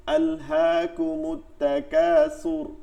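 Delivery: drawn-out Quranic syllables; "আলহাকুমুত তাকাসুর" recited slowly, syllable by syllable; demonstrated recitation. Shown as a demonstration. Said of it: "হ্যাঁ, সুর এরকম". (টেনে টেনে তেলাওয়াতের উচ্চারণ)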